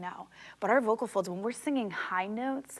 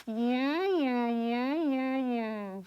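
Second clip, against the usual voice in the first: puffed cheeks; 4 semitones higher, much slower than usual. Shown as a demonstration. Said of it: "So you're gonna go".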